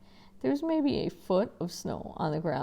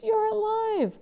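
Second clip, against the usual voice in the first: high, loud joyful shout; 5 dB louder than usual. Acted. Boy shouting to his father in the car, loud relieved cry. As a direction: yell it out in relief. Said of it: "I shouted".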